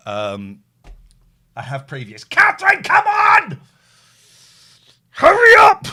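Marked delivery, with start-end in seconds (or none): 2.2-5.9 loud, high impatient call; shouting. Real, not acted. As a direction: yell for her to hurry up. Calling late guest to hurry.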